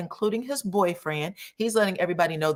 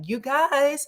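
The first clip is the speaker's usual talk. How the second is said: excited announcement; 8 semitones higher than usual. Retold or imitated. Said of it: "Kiki is super excited".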